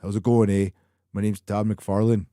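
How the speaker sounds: rough attempt at a Canadian accent; half-hearted Canadian accent; Todd McFarlane. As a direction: lightly mimic a Canadian introducing himself. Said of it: "I can't do the Canadian accent, but he kinda talks like".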